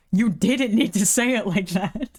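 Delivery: slow, drawn-out repeat. Retold or imitated. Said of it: "feels like he's stuttering that".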